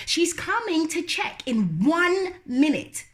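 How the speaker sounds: high, quick teasing brother; lightly voiced teasing brother. Brother teasing Lola about bed, quick. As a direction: tease her playfully.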